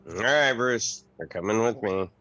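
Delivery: march him back with authority; firm command. Acted. Crewmate hauling the cabin boy back to the captain, firm.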